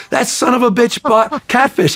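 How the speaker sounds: high, slow mock outrage cracking into a laugh; exasperated outburst. Engineer blaming the night clerk, outraged. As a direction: spit it out, incredulous. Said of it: "He goes".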